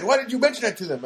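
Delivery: mock her sudden anger; retold angry outburst. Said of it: "she got real mad".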